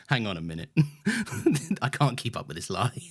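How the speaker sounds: low-pitched imitation of sudden disillusionment; mock fading spirit. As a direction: imitate someone whose cheery facade just dropped. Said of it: "light in your eyes that just faded".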